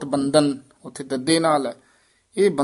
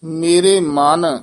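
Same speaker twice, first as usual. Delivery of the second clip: ਮਨ held a little, then a halt; brief pause after ਮਨ; 5 dB louder, much slower than usual. Shown as a demonstration. Teacher corrects the student's phrasing, short pause after ਮਨ. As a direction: hesitate just after ਮਨ. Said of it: "ਇੱਥੇ ਠਮਕ".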